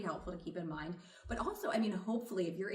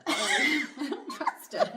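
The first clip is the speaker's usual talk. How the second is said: much higher, laughing through the words; 7 semitones higher, 8 dB louder than usual. Real, not acted. Therapist repeats her confession, laughing high. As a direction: squeal it out amused at yourself.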